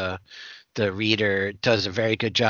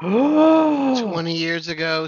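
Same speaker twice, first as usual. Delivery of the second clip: slow, higher amazed disbelief; 7 semitones higher, 4 dB louder than usual. Real, not acted. Marvelling at sixteen meg to the hosts, slow and higher. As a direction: drag it out in mock awe.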